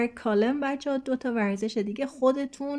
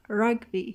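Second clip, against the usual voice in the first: "rugby" slow with RUG punched; slow "rugby", lean on RUG; exaggerated stress. Shown as a demonstration. Teacher exaggerating for students: slow "rugby", RUG stressed.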